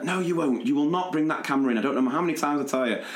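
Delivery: fast, sharp teacher's scolding; a hint of a cross teacher; stern telling-off. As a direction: snap it out like a fed-up teacher.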